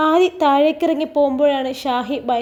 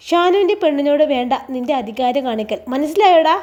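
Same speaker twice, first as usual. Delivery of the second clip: menacing demand. Acted. Husband threatening the brother.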